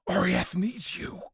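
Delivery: slow pressing whisper; whispered plea to go; urgent whisper. Acted. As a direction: whisper it so only she hears. Urging her to flee.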